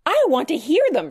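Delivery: high, loud eager cry; excited shriek. Acted. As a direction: burst out like an excited little girl. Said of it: "shrieked Grace".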